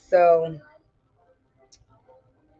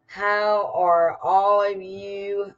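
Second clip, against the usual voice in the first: country accent; 5 dB louder than usual. Real, not acted. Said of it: "I sound so country".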